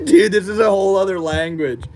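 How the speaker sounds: talking around a marker; pen in teeth. Real, not acted. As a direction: mouth full of pen. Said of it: "Shit's making me drool".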